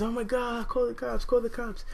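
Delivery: high-pitched mock alarm of a great-grandmother; imitated panic. Great grandma begs for police.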